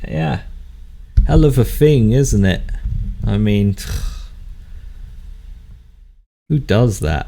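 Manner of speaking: lightly voiced gruff local; a touch of gruffness, with a sigh midway; gruff passer-by grumbling. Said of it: "you hear sort of gruff voice say".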